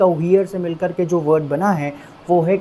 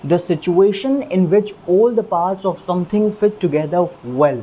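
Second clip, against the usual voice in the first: slow dictation; much slower than usual. Shown as a demonstration. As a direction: read the definition very slowly. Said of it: "वो क्या है?".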